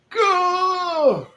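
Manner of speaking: high pitched yelp of encouragement; sudden squeal to get moving; self-cheer. Real, not acted. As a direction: shout it to push yourself forward. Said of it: "urging herself on".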